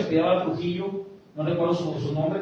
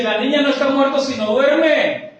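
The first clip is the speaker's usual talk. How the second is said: emphatic Jesus; 7 semitones higher, 5 dB louder than usual. Acted. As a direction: stretch out duerme with loud assurance. Jesus quoted again in the sermon. (Jesús, alto y muy lento)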